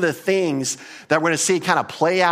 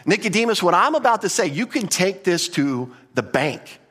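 higher-pitched emphatic opening, slowing at the end; emphatic assurance; 3 semitones higher than usual. Acted. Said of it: "it's an emphatic way of saying".

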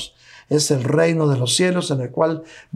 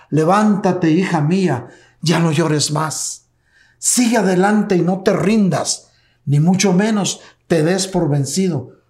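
God's tender call; 2 semitones higher, 3 dB louder than usual. Acted. God's voice quoted in sermon.

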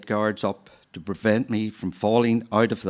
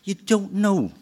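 much higher, incredulous rising echo; surprised echo; 11 semitones higher than usual. A narrator's reading. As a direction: echo his words in playful disbelief. Nurse echoes child in surprise.

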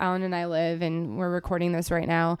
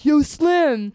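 raised, higher-pitched call-out; mock yell for someone outside; imitated street yell; 7 semitones higher, 5 dB louder than usual. People outside calling the dealer's name, imitated yelling. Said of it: "people outside would be yelling his name".

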